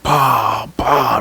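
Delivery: two spoken impact noises; bah, bah, like repeated bumps; imitated head bangs. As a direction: voice the head hitting the ceiling. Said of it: "I hit my head".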